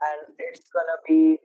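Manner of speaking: drawn-out, deadpan mock enthusiasm; sarcastic. Real, not acted. Host announcing yet another TikTok clone, sarcastically. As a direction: draw out a fake, unimpressed cheer. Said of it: "you hear the sarcasm in my voice".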